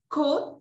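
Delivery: "could" as "kud", short loose oo; silent L. Shown as a demonstration. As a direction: say "could" to rhyme with "good", no L. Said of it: "la L no suena".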